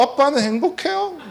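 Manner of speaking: sharp high resentful ask; glaring accusing question. Retold or imitated. Son glaring at his father, asking if he's happy, accusing. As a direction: glare and throw the question back. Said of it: "딱 째려보면서".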